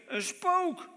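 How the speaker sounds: high, loud cry of fright; frightened cry. A narrator's reading. Disciples in the boat crying out in terror, high shriek. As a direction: shriek it like you've seen a ghost. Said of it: "Ze riepen".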